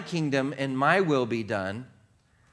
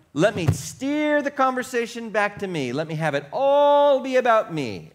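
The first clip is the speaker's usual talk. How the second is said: self-centred voice; 8 semitones higher, 4 dB louder than usual. Pretend. Voicing the self-centred inner voice.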